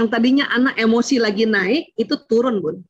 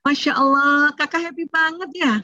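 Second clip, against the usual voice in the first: happy praise; 5 semitones higher than usual. Shown as a demonstration. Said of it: "Ya namakan aja emosinya".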